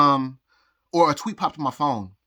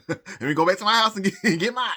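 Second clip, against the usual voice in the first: higher-pitched words broken up by laughter; laughing; 5 semitones higher than usual. Real, not acted. Vlogger recalls retreating to the house, laughing as they talk. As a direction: chuckle through the retold retreat.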